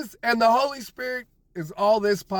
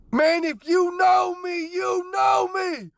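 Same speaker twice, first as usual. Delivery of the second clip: choked up; 3 semitones higher than usual. Real, not acted. Telling viewers who know him about his sobriety, choked up. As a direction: voice catching with emotion, slowing at the end. Emotional about being sober a year.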